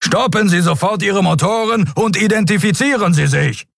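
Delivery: high-pitched, strained commanding voice; Sron, booming order. A narrator's reading. Captain ordering unknown ship to stop, booming. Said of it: "dröhnte es aus dem Kubus".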